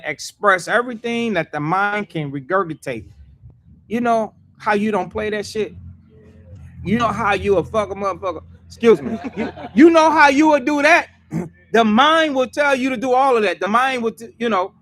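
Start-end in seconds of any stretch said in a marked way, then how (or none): 3.9-14.7 rising, louder, preaching harder; heated preaching. Real, not acted. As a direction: build the fire of the sermon. Mocking hothead temper, preaching.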